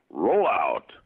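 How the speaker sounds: commanding robot-leader call; imitated Optimus catchphrase; Optimus toy voice. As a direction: give the toy's order to move. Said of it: "the voice, you know, when you push a button".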